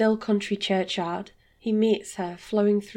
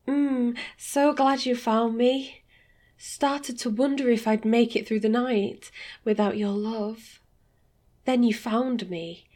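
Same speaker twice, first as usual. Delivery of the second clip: lightly voiced lover; 2 semitones higher than usual. Sophia voiced by narrator.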